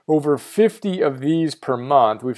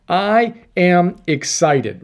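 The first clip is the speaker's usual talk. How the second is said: slow excited; 3 semitones higher, much slower than usual. Shown as a demonstration. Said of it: "not hard to say to yourself".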